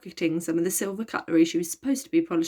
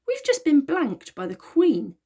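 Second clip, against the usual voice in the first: slow, louder, higher indignant complaint; 8 semitones higher, 4 dB louder, slower than usual. A narrator's reading. Elliot complains to Virgo after the Queen ignores them, indignant. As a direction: put out, drawing each word out. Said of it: "said Elliot indignantly".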